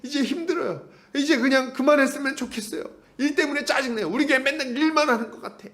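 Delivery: high, whining grumble of a tired churchgoer; whiny complaining. Retold or imitated. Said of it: "막 불평불만을 하는 거예요".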